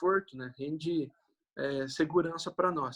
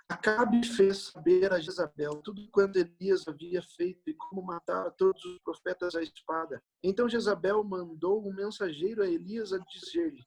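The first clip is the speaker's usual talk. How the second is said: raised, solemn Bible reading voice; scripture reading; 4 semitones higher than usual. Acted. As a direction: read the passage aloud to the congregation. Reads Bible passage aloud.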